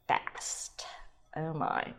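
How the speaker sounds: trailing into a whisper; hushed. Real, not acted. Wine podcaster savoring a sip, hushed. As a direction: drop to a soft, breathy whisper.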